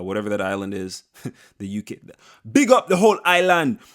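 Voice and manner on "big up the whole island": shout-out. Real, not acted.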